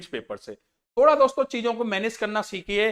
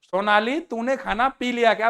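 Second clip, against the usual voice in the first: mock wrong Hindi line. Shown as a demonstration. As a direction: say it like an honest blunder. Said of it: "अगर मैं हिंदी में बात करूं". ("सोनाली तूने खाना पी लिया क्या?" को धीरे-धीरे गलत हिंदी की तरह कहना)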